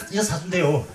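normal talking voice

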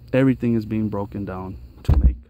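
eager, rushing explanation of the compost; getting excited. Real, not acted. Gardener gets excited showing compost to viewers, eager voice. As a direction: caught up in excitement about the soil. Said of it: "I'm getting excited over here".

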